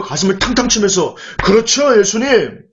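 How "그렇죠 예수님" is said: mock cocky, raised-pitch boast; lightly acted brash assurance; proud confidence. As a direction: imitate chest-thumping, self-assured disciples. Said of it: "그렇게 떳떳하게 가슴을 피면서".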